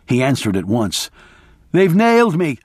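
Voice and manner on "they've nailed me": shouting. Retold or imitated. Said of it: "I shouted".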